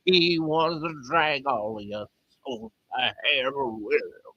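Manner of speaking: slow, hammed-up Texas preacher; attempted Texas accent. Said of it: "that's not a Texas accent".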